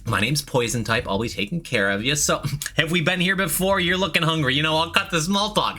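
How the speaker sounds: lightly voiced perky server; a hint of a bubbly waitress greeting; customer service voice. Shown as a demonstration. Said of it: "Quality customer service voice".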